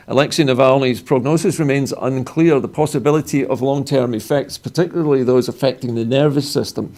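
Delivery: measured news bulletin delivery; news read. Acted. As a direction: read the statement out as a newsreader. Reads a news statement.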